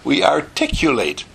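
"articulate" with every syllable crisply sounded; "articulate" said completely and distinctly; carefully articulated. Shown as a demonstration. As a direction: enunciate "articulate" fully, like a speech coach. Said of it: "what word do we use in speaking perfect English".

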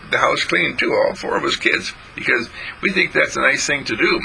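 put-on high, quick boy's voice, earnest; young John insisting he helps mother; earnest little boy.

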